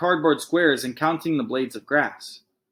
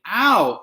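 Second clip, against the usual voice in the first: a yelped ow, higher; mock ow of pain; 7 semitones higher, 4 dB louder than usual. A narrator's reading. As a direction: cry out ow like a drama queen.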